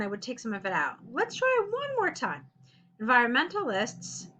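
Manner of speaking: ordinary delivery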